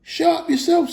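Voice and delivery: very high, squawking retort; indignant troll. A narrator's reading. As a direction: throw it back, offended. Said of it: "said Tom".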